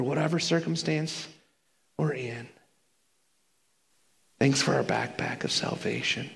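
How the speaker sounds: soft, winding-down closing prayer. Real, not acted. Preacher closing prayer in Jesus' name, softly. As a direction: ease gently toward the amen.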